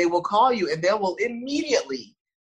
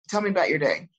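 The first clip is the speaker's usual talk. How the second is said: soothing voice; 2 semitones lower than usual. Retold or imitated. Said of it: "my voice is very soothing".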